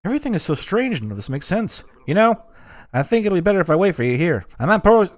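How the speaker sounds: high cartoon character voice; a lost game character puzzled about the place.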